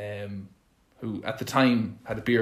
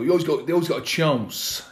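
Cascarino impression; 5 semitones higher than usual.

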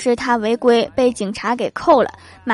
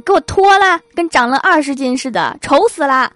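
loud, higher mock order; bossy mom; 3 semitones higher, 4 dB louder than usual. Mom orders son to take off long johns, mock bossy. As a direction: command like a fussy mother.

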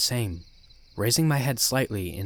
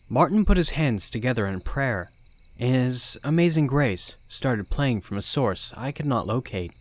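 ordinary delivery

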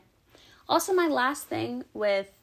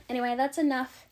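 winded, talking between breaths; out of breath after talking; 3 semitones higher, 4 dB louder than usual. Real, not acted. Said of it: "I'm genuinely out of breath".

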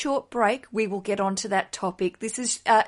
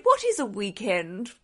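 lightly voiced posh aristocrat, slow; a hint of haughty puzzlement, drawn out; Dowager Countess. Host quoting a favourite Downton Abbey line, lightly posh. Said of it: "she's, she's so posh".

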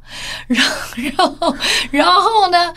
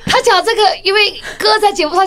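excited; 8 semitones higher, 3 dB louder than usual. Real, not acted. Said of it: "我笑到我没有办法录".

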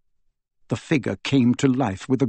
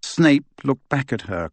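usual speaking voice

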